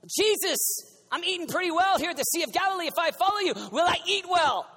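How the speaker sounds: Peter asking. Pretend. Peter asking about food.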